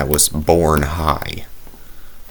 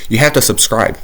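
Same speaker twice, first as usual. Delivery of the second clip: louder and higher, pushing the point; insistent; 5 semitones higher, 5 dB louder than usual. Real, not acted. Youtuber ordering viewers to subscribe, louder and insistent. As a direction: demand it of the viewers.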